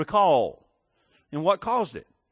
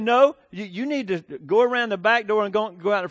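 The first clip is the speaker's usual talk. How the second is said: raised mother voice; 4 semitones higher, 5 dB louder than usual. Retold or imitated. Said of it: "And she said".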